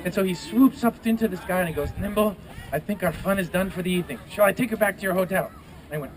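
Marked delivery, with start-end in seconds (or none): 2.0-5.5 lightly voiced griffin with French-Spanish accent; hint of mock French-Spanish. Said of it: "French, Spanish thing going on there".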